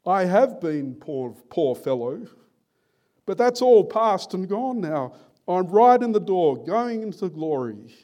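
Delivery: loud, high, swelling declaration; rapturous testimony, rising to a peak and easing; acted exultation. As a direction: proclaim victory with your last strength. Dying Tom exults in heaven.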